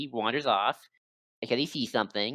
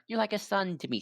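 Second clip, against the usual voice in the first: higher, softly put-on fondness; feigned motherly affection; 7 semitones higher, 4 dB quieter than usual. Maleficent pretending to care for Riku, feigned affection. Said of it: "tries to pretend to be like".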